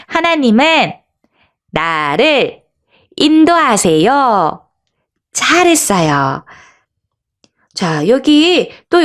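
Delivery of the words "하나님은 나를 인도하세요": slow call-out in separate phrases, pausing for echo; lead-along call-out. Shown as a demonstration. Teacher has children follow her, slow phrase-by-phrase call-out. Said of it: "우리 한번 외쳐보겠어요".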